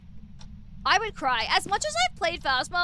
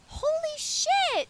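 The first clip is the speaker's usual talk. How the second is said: surprised; 11 semitones higher, much slower than usual. Real, not acted. Stunned by gifts.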